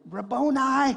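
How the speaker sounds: high, loud cry of recognition; Mary crying out to Jesus in a high, loud voice; cried out. Acted. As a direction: call out the name in joyful shock. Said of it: "cried out in Aramaic".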